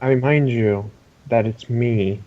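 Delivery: evil voice. Acted. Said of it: "he's doing his evil voice".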